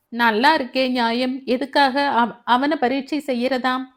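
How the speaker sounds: loud indignant retort; scolding question. Acted. Mother-in-law rebukes daughter-in-law, loud indignant scold. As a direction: bark the outrage back at her. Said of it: "மாமியாரின் அதட்டலான கேள்விக்கு".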